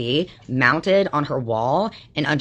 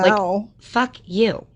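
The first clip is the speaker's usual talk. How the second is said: high, put-on snooty voice; higher mocking impression of Heidi; 6 semitones higher, much slower than usual. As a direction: sneer it like a stuck-up rival. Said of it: "she sits there like this".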